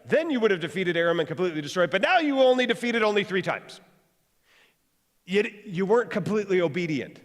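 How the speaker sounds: a touch of prophetic anger; angry man of God. A narrator's reading. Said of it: "The man of God was angry with him".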